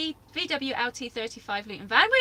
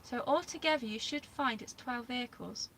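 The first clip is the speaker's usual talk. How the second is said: whispering; 10 dB quieter than usual. Real, not acted. Closing the list aside.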